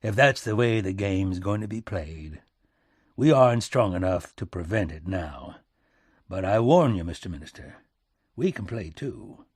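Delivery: heavy, emphatic back-country statesman; concede, then warn him; hard punch on the warning, then dropping; President Lincoln, grimly warning. Acted.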